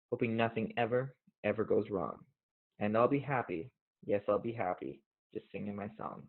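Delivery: steady, measured poem recital; reading a mother's poem to the audience. Acted. Reads mom's poem aloud.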